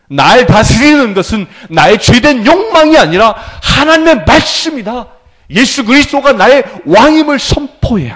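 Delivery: high-pitched, emphatic pulpit declaration; impassioned sermon delivery; forceful preaching. Real, not acted. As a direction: proclaim it to the whole congregation.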